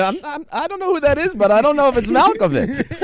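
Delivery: high, strained star impersonation; Malkovich voice. Retold or imitated. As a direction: pitch way up into a wild Malkovich. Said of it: "I was going".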